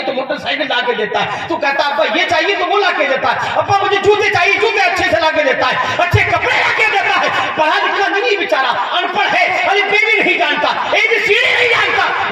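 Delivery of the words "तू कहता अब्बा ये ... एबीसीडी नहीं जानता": higher, louder, building sermon cadence; impassioned sermon listing the father's sacrifices; fervent preaching. Acted. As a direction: drive each line harder than the last. Preacher building passionate list.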